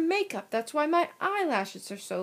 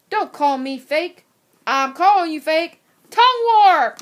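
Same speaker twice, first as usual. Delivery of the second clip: escalating shout; 3 semitones higher, 11 dB louder than usual. Acted. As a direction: shout the war cry. Boys' escalating fake-accent argument.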